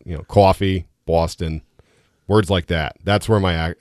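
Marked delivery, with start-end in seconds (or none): 0.2-1.6 "coffee" and "Boston" with "aw" vowels; accented O. Shown as a demonstration. Guest showing where he has accent, long O. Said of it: "So it comes out".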